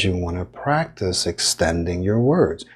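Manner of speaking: lightly elongated teaching phrase; extending the words. Shown as a demonstration. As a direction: stretch "extending" out as a demonstration. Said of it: "practice extending your words that way".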